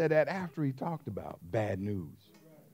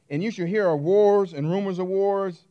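preaching at full force; 6 semitones higher, 9 dB louder than usual. Acted. Preacher quoting scripture at force.

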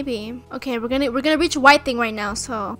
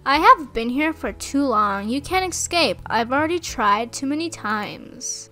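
dramatic voiceover narration. Acted. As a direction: narrate it like a horror trailer. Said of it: "I'm a make voiceover".

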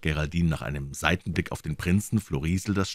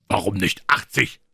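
mildly raised colonel's voice; shouted; 4 semitones higher, 5 dB louder than usual. Acted. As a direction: call it out, only a touch louder. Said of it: "schrie der Oberst". (leicht erhobene Stimme)

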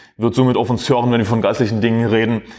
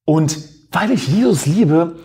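mocking so-called Christian; 3 semitones higher than usual. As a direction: parody the pious talk of lukewarm believers, pitched up. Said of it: "sogenannte Christen daher und sagen".

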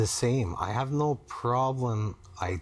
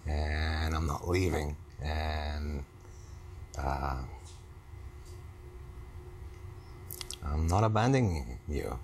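low-pitched, halting reassurance; low, careful words of commitment; earnest reassurance; 6 semitones lower, 4 dB quieter than usual. Real, not acted. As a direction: reassure your partner gently, with long pauses. Husband reassuring wife in therapy exercise.

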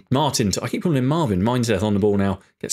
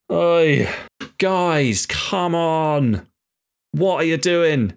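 raised, exasperated call to the players; angry shout at team; 4 semitones higher, much slower than usual. Real, not acted. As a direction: yell at the squad to wake up. Manager yelling at his players.

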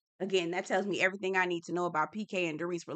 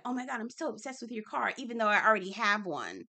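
mock Dorit. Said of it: "Dorit was like".

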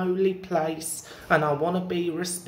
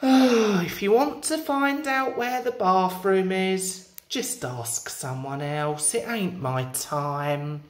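rude brush-off. Acted. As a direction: brush the customer off rudely. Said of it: "you were being rude to the customers".

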